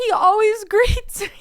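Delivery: high mock-tearful whine breaking into laughter; exaggerated distraught wail; mess on the phone. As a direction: plead it, half laughing. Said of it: "I was a mess on the phone".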